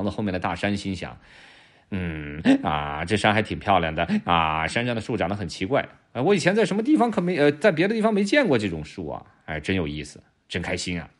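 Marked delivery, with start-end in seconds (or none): 1.9-11.1 好奇又开心地自言自语, 偶尔抬高; 像头刚到新地方的驴, 东张西望地嘀咕; 驴的心声. Acted. 驴的心里话. (轻轻扮演的驴在惊喜地自言自语)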